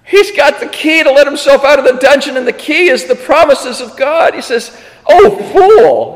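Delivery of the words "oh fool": high, drawn-out acted self-scolding; self-reproach. Pilgrim finding the key, exclaiming in self-reproach. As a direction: exclaim it at yourself, pitch raised. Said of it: "He calls himself a fool".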